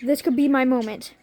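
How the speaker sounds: loud, breathless excitement. Retold or imitated. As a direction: gush as if your dream is about to come true. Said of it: "I'm almost hyperventilating".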